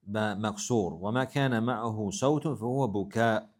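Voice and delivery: fast, even recitation of classical Arabic; reading Arabic text. Acted. Teacher reading the Arabic passage aloud to the class, fast recitation. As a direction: rattle through the quoted text.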